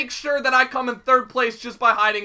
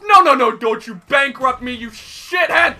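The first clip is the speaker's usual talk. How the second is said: angry yelling; 5 dB louder than usual. Real, not acted. Yelling at rival player.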